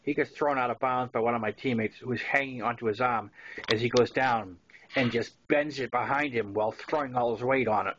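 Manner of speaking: plain reading voice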